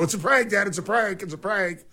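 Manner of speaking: mock panicked kid, fading off; whiny prank kid. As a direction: kid backpedaling to an angry dad. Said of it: "and they go".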